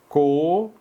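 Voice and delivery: co-ro-néis split into syllables. Shown as a demonstration. Teacher splitting Coronéis for students. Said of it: "Como é que eu separo a palavra coronéis?".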